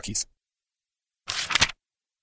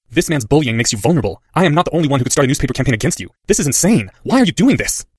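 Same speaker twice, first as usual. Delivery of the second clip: rising anger; 3 semitones higher, 3 dB louder than usual. Acted. Boy confronts headmaster.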